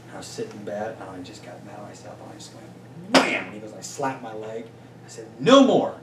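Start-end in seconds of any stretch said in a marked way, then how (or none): 5.4-5.9 loud, high shout of resolve; retold yell. Client yelling at himself in bed, loud shout. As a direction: yell it as a vow to yourself. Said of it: "I just yelled it out".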